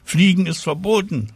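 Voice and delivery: put-on high, scolding child's call; called-out reprimand. A narrator's reading. Ilse calling up to flying Tina, scolding. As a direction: call the rule up at someone, high. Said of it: "rief Ilse ihr zu".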